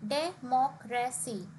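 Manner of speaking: "democracy" slowly split as de-moc-ra-cy; slow, segmented "democracy", a small gap after each syllable. Shown as a demonstration. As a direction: break "democracy" into four separate beats. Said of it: "it is a four-syllable word".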